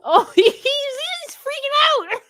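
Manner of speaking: squealing high through laughter; helpless laughter. Real, not acted. Co-host reacting to a streamer freaking out, cracking up. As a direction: crack up while talking, loud and very high.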